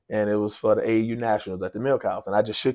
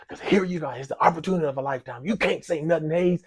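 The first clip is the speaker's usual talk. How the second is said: higher mocking inner voice, chiding himself; nervous guest scolding himself for staying silent, raised mocking voice; self-scolding; 8 semitones higher, 4 dB louder, faster than usual. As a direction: needle yourself for chickening out.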